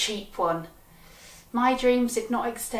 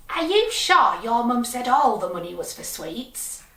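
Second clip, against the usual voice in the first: lightly voiced shopkeeper, louder questioning; doubting shopkeeper; 5 dB louder than usual. Shopkeeper querying children about mum's money, doubtful. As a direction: put on a touch of a suspicious shop lady.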